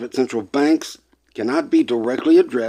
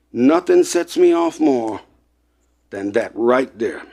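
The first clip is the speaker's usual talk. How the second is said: worked up. Real, not acted. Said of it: "sorry to get worked up like that".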